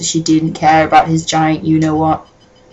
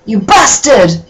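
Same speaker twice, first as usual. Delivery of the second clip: mock angry shout; 3 semitones higher, 4 dB louder, slower than usual. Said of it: "I shouted angrily".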